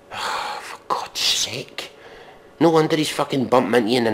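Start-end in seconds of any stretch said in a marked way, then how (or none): 0.0-1.9 slow, breathy for God's sake; sighing despair. Real, not acted. Reviewer sighs at the hump lyrics, slow. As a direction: sigh it out wearily.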